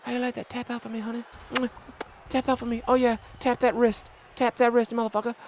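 a lightly softened mocking croon at the opponent; mock sweet taunt. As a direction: coo the threats like sweet nothings. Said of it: "I'm whispering sweet nothings in your ear".

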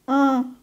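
slow nasal an like an A with a tilde; slow nasal an for the class; nasal vowel demo. Shown as a demonstration. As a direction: draw out an through the nose. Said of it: "um A com tio em cima".

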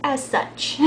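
slightly drawn-out Southern twang; Southern accent. Shown as a demonstration. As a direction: let a light Southern accent slip out. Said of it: "kinda like this".

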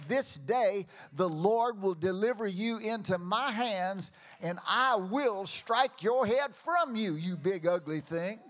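loud, rising defiant challenge; defiant battle cry. Retold or imitated. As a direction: hurl it at the giant. David shouting at Goliath.

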